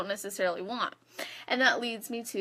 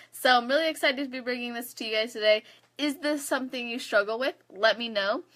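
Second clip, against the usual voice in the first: talking around a swollen tongue; thick tongue after a bite; 2 semitones higher than usual. Real, not acted. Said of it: "my tongue is swollen".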